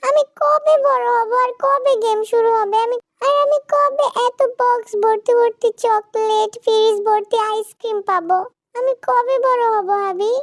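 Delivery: high, slow, drawn-out whine; impatient child wife. Acted. Zara asking when she will grow up, high and whiny. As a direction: whine impatiently, stretching the words.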